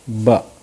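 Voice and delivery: "ब" as a short "buh"; letter's sound. Shown as a demonstration. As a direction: say "ब" short, as the sound starting "book". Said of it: "इसका उच्चारण होता है". ("ब" का छोटा, अलग उच्चारण)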